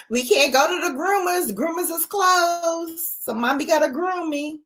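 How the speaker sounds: put-on high sing-song baby talk; baby talk to the dog. Talking to her dog in high baby talk.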